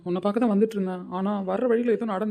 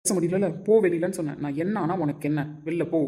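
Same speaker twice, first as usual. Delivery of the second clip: angry shout; 2 semitones lower, 4 dB louder than usual. Acted. Husband shouting her out.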